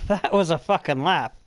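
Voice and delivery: usual speaking voice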